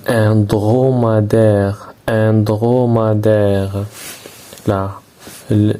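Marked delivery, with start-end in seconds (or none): 0.1-1.9 slow syllable demo. Shown as a demonstration. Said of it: "J'écoute et je repère". 2.1-3.8 slow syllable demo. Shown as a demonstration. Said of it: "J'écoute et je repère".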